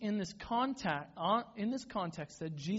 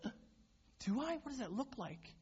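unsure; 7 semitones higher, 5 dB quieter than usual. Retold or imitated. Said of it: "And I'm like".

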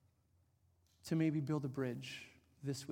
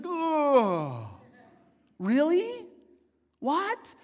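loud, much higher cries of "really? what?"; retold shock climbing louder and higher; overwhelmed astonishment; 9 semitones higher, 9 dB louder, much slower than usual. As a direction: blurt it out, caught completely off guard. Pastor reads the signed email.

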